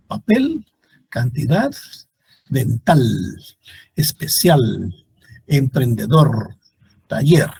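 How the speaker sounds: papel, cantidad, dental, each drawn out on its last syllable; final-syllable stress. Shown as a demonstration. Teacher listing unaccented agudas, end-stressed papel through taller. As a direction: lean on the endings of especial, emprendedor, taller, word by word. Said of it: "en la última sílaba".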